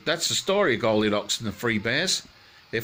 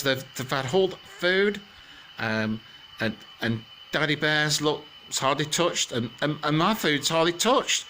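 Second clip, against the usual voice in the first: Mummy Bear; 5 semitones higher than usual. Acted. Mummy Bear voiced in story.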